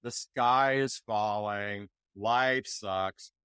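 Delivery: low, slow, glum Eeyore voice; mopey donkey moaning; Eeyore gloom. Acted. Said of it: "Eeyore is".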